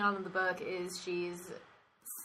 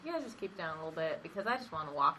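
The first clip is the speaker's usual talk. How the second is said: fast mock complaint; 4 semitones lower, faster than usual. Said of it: "I'd have been like".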